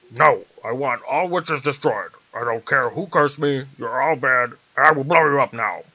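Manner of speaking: loud, furious general's shout; screaming general. A narrator's reading. General screaming at the witch to destroy her. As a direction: bellow it at the witch. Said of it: "the general screamed in a very stinky voice".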